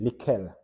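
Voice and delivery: "likel" with a full e vowel, "li-KEL"; wrong vowel added. Shown as a demonstration. Teacher showing the wrong spelling's result, "likel" as "li-kel". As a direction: sound out an extra e before the L in "likel". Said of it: "that's not the pronunciation".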